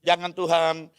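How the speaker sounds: a father begging God not to take his son; desperate plea. Retold or imitated. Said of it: "Kira-kira gitu".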